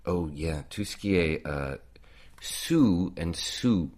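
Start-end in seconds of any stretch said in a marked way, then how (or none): 2.4-3.9 "sous and sous" slowly and carefully; vowel drill. Shown as a demonstration. Tutor contrasting the two words "sous". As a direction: stretch each "sous". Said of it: "Au-dessous".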